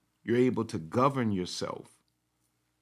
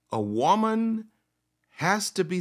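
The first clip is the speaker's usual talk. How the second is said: high emphasis; 8 semitones higher than usual. Acted. Preaching emphasis.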